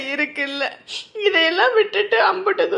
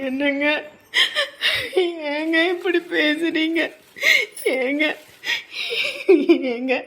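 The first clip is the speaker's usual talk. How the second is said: weeping. Acted. Wife crying after her husband's harsh words. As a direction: barely get the words out between sobs.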